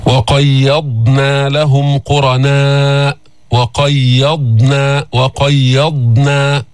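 وقيضنا slowly, ض held without echo; الضاد ساكنة بلا قلقلة; still dad. Shown as a demonstration. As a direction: draw out وقيضنا with a calm ض. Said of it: "إسكان الضاد".

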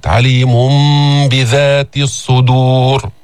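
عليم بذات with the nun turned to a nasal m; nasal m before b in بذات; iqlab. Shown as a demonstration. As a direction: glide عليم into بذات with a hidden m. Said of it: "ميم مخفاة".

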